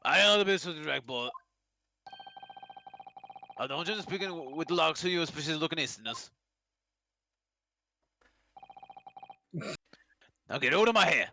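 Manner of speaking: gruff, dismissive warden; rough governor voice. Acted. Governor sending the Easterners away, gruff rough voice. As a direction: growl them out of the room. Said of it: "you make his voice so rough".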